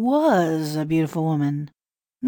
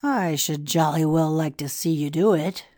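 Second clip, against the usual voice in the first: unbelieving; 12 semitones higher than usual. A narrator's reading. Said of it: "said the priest unbelievingly".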